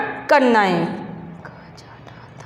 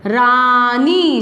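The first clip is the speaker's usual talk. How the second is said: slow dictation of रानी as रा...नी; syllable by syllable; 4 semitones lower, much slower than usual. Shown as a demonstration. Teacher dictating a word for pupils to write, syllable by syllable. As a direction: stretch both syllables of रानी. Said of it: "शब्द को लिखो".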